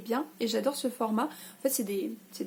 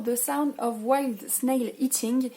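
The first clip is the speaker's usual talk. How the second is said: French accent; much slower than usual. Real, not acted. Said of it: "désolée pour mon accent, mais le snail ne voulait pas sortir".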